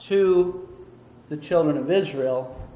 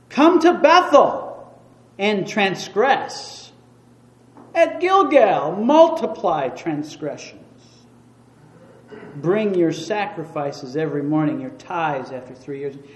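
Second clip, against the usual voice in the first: put-on heavy sarcasm, swooping tone; 4 dB louder than usual. Explaining a Bible passage, quoting the prophet's words with put-on sarcasm. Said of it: "here he mentions it more in a sarcastic tone".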